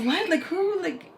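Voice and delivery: high-pitched, incredulous questioning; baffled and offended, voice jumping up; mock-indignant disbelief; retold indignation. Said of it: "And so I get mad".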